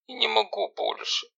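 high, tearful sister begging; tearful, high young girl pleading. Acted. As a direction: plead through tears, voice up high. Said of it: "со слезами в голосе".

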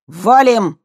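loud, high urgent command; commanding shout. Acted. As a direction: bark the order to run. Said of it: "скомандовал Костя".

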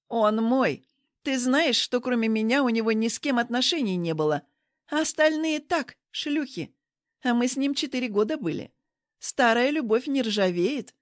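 loud, jealous claim; possessive outburst. Acted. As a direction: stake your claim loudly. Jealous rival claims her man.

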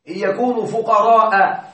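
فقراء بفتحة أخيرة مفتوحة بلا نون; اختم فقراء دون تنوين; بدون تنوين. Shown as a demonstration. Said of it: "ليس فقراء". (فقراء بلا تنوين)

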